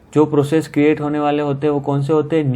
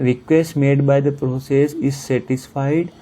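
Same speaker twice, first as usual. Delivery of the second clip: slowly reading out each word of the question; slow, deliberate question reading; slow read-aloud; much slower than usual. Shown as a demonstration. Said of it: "teacher reads the question aloud".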